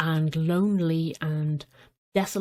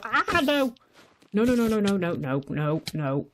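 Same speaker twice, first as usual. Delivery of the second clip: being chased. Real, not acted. Goat still attacking.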